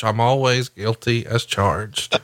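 slow, drawn-out mock announcer; slow mock promo delivery. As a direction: stretch it out like a hammy promo. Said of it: "What do you think about that".

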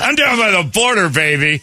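high folksy Southern voice; sweet-talking Southern lawman; drawling Southern sheriff. Acted. Voicing Arpaio.

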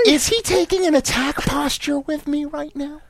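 high, held-up incredulous question; mock alarm. Dad wondering if a stranger will attack, incredulous. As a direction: play it high and disbelieving. Acting out alarmed inner reaction.

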